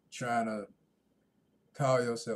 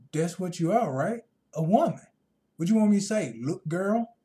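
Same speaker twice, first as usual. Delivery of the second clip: incredulous retort; 4 semitones higher, 5 dB louder than usual. Retold or imitated. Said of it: "I'm like".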